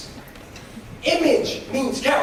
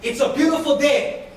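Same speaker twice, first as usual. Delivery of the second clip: call and response. Shown as a demonstration. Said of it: "Repeat after me".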